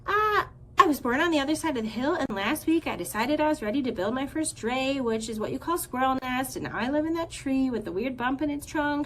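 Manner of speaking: high, fast rambling squirrel voice; young squirrel meets gosling, high, fast nonstop chatter; breathless chatter. Acted. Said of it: "the squirrel shared her stories".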